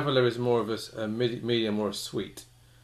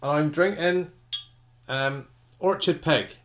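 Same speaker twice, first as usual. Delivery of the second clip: broad Somerset burr, louder and higher; West Country accent; 5 semitones higher, 5 dB louder than usual. Pretend. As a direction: farmer from Somerset. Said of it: "I'll stop talking in a West Country accent there".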